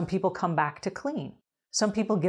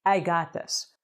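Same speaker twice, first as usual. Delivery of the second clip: confident; slower than usual. Pretend. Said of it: "show up with a hundred percent confidence and say".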